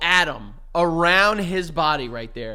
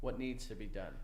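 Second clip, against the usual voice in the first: menacing low voice; 9 semitones lower, 18 dB quieter than usual. Acted. Jealous husband threatens.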